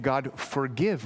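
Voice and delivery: slow, simple request for mercy; the right, humble prayer; humble plea. Retold or imitated. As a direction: ask only for forgiveness. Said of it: "He said".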